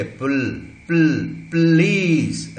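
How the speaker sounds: "पुल" as p fused to l, then drawn-out "प्लीज"; syllabic l. Shown as a demonstration. Teacher showing two sounds joining, slow blended pronunciation. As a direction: blend p and l with no vowel, stretching "प्लीज" slowly. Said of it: "प और ल दोनों मिल गए".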